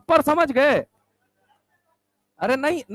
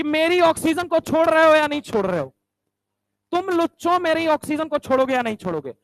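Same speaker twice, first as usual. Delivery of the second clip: mock threat; 5 semitones higher than usual. Phosphorus threatens the thieves.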